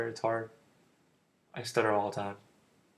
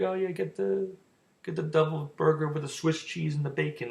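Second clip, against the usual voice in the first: lightly voiced woman, pitched higher; imitated woman recommending; 5 semitones higher than usual. Woman at burger place suggesting an order, lightly imitated. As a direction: imitate her helpful reply in a higher voice.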